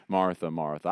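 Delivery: Jesus tenderly addressing his friend Martha. Retold or imitated. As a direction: say her name with love. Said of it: "I hear tenderness when he says it".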